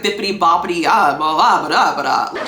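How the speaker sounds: garbled, bouncy New York gibberish; mock New York accent. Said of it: "strong New York accent for some reason".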